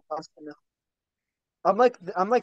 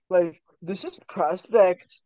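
sports announcer. Pretend. Mock sports announcer hype.

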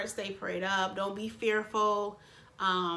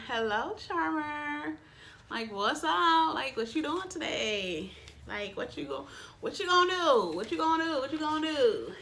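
playful sleeve voice; 4 semitones higher than usual. Retold or imitated. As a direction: give the packaging a cute sing-song hello. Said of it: "and it's going".

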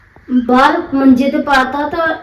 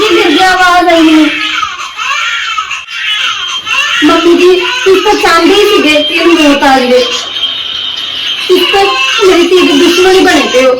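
higher-pitched, upset mother's outcry; distraught accusation; 5 semitones higher than usual. Acted. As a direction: accuse her in raised, distressed tones. Mother upset over fallen baby daughter. (ਘਬਰਾਈ ਹੋਈ ਮਾਂ ਦਾ ਦੁਖੀ ਉਲਾਂਭਾ)

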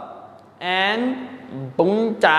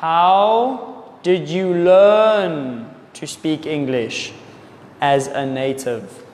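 slow, clear teacher correction of the question; slow careful correction; 3 semitones lower than usual. Shown as a demonstration. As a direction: say "How did you learn to speak English as a native?" slowly, word by word. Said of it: "you should ask".

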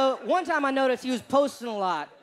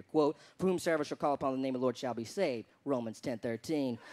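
low, soft academic recital; mock-studious poster; 5 semitones lower, 5 dB quieter than usual. Posting findings to seem smart, studious lecturing tone. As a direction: read it out like an earnest research paper. Acting his scholarly research post.

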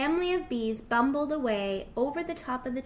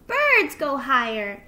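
loud little fox calling out; bursting out with the answer; excited shout; 3 semitones higher, 8 dB louder than usual. A narrator's reading. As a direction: shout it like a delighted child. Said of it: "shouted Little Fox".

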